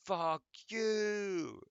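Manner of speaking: high, loud, drawn-out squeak; squeaky punchline. Retold or imitated. Gamer video punchline, high loud squeaky curse.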